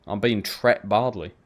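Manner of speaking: tret with a short e like bet; I'm being tret, one clipped syllable; saying tret. Shown as a demonstration. Showing chat how he says it, tret. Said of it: "You wouldn't say".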